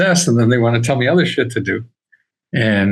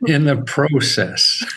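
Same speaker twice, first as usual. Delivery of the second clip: put-on Canadian accent; 2 semitones higher, slower than usual. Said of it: "now I hear your Canadian accent".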